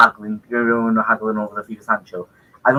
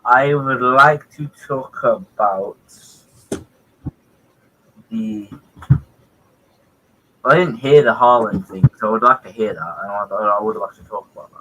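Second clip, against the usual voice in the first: mock serious. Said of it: "And be serious".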